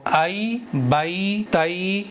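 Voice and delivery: "ائی بئی تئی" with a clear ai sound; maroof vowel. Shown as a demonstration. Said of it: "یہ ہے معروف پڑھنا". ("ائی بئی تئی" معروف آواز میں)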